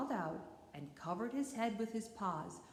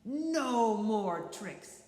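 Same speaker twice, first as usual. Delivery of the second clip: threatening; 6 dB louder than usual. Acted. Coyote threatens lamb.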